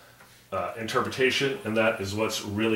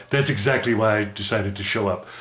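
puppet voice. Acted. Puppet Math Mud answers.

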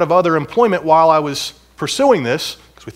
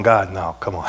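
laughing 'God, no'; half-joking plea through laughter; laughing protest; 8 semitones lower than usual. Retold or imitated. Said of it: "And I remember going".

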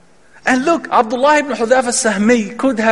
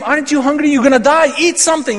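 higher coaxing voice; urging captors; 6 semitones higher, faster than usual. Retold or imitated. Captors pressing a starving prisoner, higher coaxing voice. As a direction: lift the voice, pressing him to eat.

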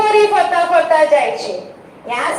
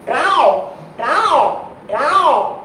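put-on a child's storybook frog sound; frog croak. Shown as a demonstration. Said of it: "કેવો અવાજ કરે?". (દેડકાનો અવાજ)

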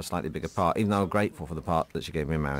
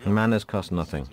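Roger Moore line; 3 semitones higher, slower than usual. Acted. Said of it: "this is the Roger Moore scene".

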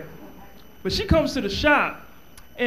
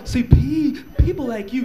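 nagging woman; 3 semitones higher than usual. Retold or imitated. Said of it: "She keep on going".

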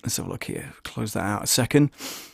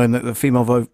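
usual speaking voice

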